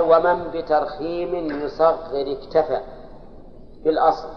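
slow, measured chant of the Alfiyya verse; verse recitation. Shown as a demonstration. Teacher reciting the grammar verse to his students, slow chant. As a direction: draw each word out as a recited line. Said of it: "ثم قال".

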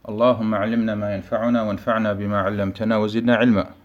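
fluent, even Arabic recitation; formal opening invocation. Acted. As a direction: recite the opening praise in a steady flow. (formelhaft rezitierte Eröffnung)

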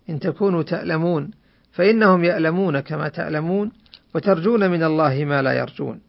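normal talking voice

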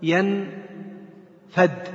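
ينفد stretched very slowly, ending on a clear dal; drawn-out dal. Shown as a demonstration. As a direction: chant ينفد slowly so the final dal is unmistakable. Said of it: "بالدال المهملة وليس بالذال المعجمة". (ينفد بمد بطيء ودال واضحة)

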